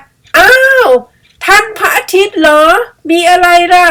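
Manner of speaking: high, loud surprised call; gasping up at the sun; surprised animal. Acted.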